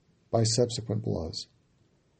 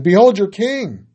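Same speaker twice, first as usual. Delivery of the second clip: loud, higher, slow proclamation; Pilate proclaiming; 8 semitones higher, 10 dB louder than usual. A narrator's reading. Pilate to the Jews, slow loud proclamation. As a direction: hold each word up before the crowd, slow and loud. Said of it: "And he said to the Jews again".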